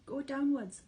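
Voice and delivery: high, loud command; father fox commanding his family to dig; ordering. A narrator's reading. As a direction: bark the order. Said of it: "ordered Mister Fox".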